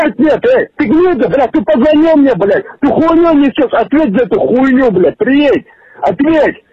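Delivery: angry yelling. Real, not acted. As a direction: yell the demand in real rage. Furious victim on prank call.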